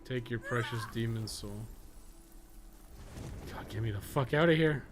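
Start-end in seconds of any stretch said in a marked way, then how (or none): none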